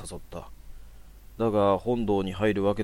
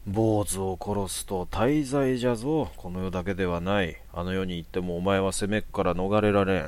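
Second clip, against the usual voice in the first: put-on creaky wise old man. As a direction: warn of damnation like a sage. Priest warns of sin.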